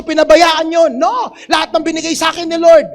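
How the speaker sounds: loud preaching burst; fervent shout. Real, not acted. Preacher shouting at those who neglect blessings, loud. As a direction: preach it with full force.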